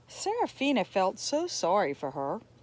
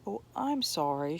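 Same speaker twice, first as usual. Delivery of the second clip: gentle; 3 semitones lower than usual. Acted. Woman gently apologizing to confused Serafina. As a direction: ease her fear with kindness. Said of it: "she said gently".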